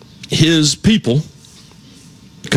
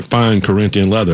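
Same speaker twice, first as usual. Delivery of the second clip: put-on Ricardo Montalban accent; 5 semitones lower than usual. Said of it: "that incredible accent he had".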